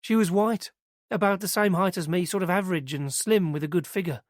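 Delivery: put-on earnest young witness telling it eagerly; girl's voice.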